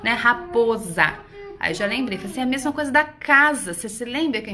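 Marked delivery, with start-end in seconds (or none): 0.1-1.2 "Raposa" slowly, the s voiced as z; "Raposa" with a buzzing z for the s. Shown as a demonstration. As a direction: stretch "Raposa" to show its z sound. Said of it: "ela tem o som de Z".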